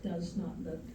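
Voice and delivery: measured spoken-word delivery with long pauses; solemn poetry reading, lingering on each image; poem recitation. Acted.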